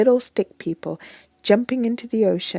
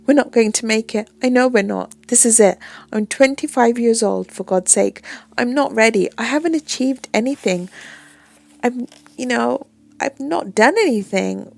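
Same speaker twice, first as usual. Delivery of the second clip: panicky outburst; 3 semitones higher, 6 dB louder than usual. Acted. Panic confession during turbulence.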